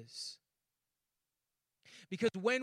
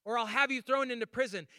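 high, louder mock threat; threatening demand; 5 semitones higher, 5 dB louder than usual. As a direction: grab him and demand payment. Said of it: "grabbed that man by the shirt".

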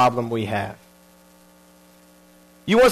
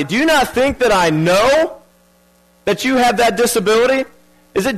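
higher, pointed sarcastic questions; sarcastic God; 5 semitones higher than usual. Retold or imitated. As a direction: needle him with obvious questions. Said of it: "God's kinda almost being sarcastic".

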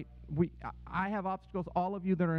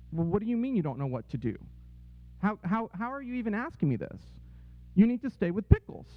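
retold incredulous insistence; 3 semitones higher than usual. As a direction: act out a boss who can't believe the question. Boss retells reproving worried employee.

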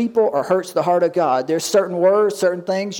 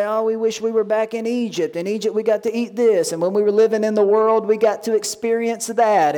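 mildly imitated grumbling, pitched higher; mock complaining; 4 semitones higher than usual. Preacher imitates Israelites wishing for Egypt, mock complaining. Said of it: "they would complain and they would murmur".

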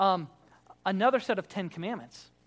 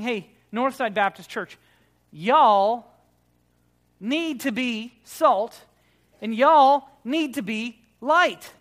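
commanding tone; 2 semitones higher, 7 dB louder, slower than usual. Retold or imitated. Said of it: "It's not a command".

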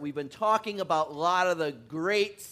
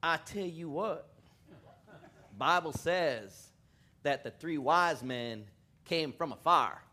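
slow, drawn-out attempt at a West Texas accent; a northern preacher trying on a West Texas kid's voice; slower than usual. A kid answering the judge, in a mild West Texas accent. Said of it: "in his best thick West Texas accent".

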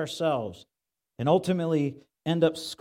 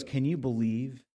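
low, hushed gossip to a neighbour; muttered aside; 4 semitones lower, 5 dB quieter than usual. Acted. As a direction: lean in and mutter it quietly. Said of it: "He leans over and goes".

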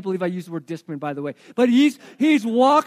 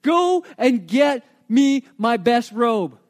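slow, firm order to a servant; father's command; 4 dB louder, slower than usual. Retold or imitated. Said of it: "turns to his servant and says".

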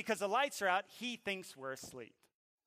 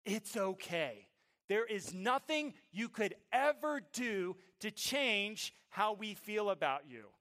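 slow, deliberate fatherly promise; earnest reassurance; 5 semitones higher, 7 dB louder, slower than usual. Retold or imitated. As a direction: reassure him, weighting each phrase. Reassures his son.

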